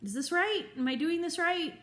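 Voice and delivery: a hesitant pup checking with its trainer; shy puppy voice. Retold or imitated. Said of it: "he just places his paw on you like".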